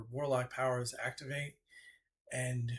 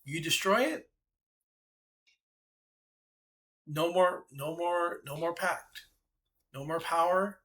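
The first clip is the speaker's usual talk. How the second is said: scheming goddess; 3 semitones higher than usual. Acted. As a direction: dangle the deal like a trap. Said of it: "I was like".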